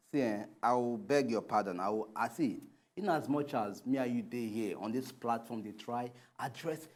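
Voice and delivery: low, very soft pleading; subdued apology. Acted. Scolded co-host asks the host's pardon, subdued apology. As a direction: back down quietly, deferentially.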